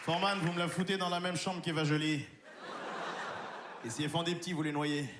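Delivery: low, cold contemptuous doctor; a hint of a deep, disdainful doctor; arrogant doctor House. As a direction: sneer as the nasty TV doctor. Plays doctor House character.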